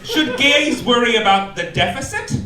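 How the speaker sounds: high squealy mock gay-magazine voice, very high on the one-word answers; mock gay press voice. Comic mocking gay magazine headlines in a high camp squeal. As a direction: shriek the silly questions in a high camp voice.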